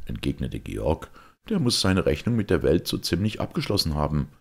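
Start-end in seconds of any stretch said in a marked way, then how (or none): 1.5-4.3 lightly voiced youth with spirited emphasis; a hint of soldierly resolve; resolute young knight. Georg speaks of death in battle, spirited.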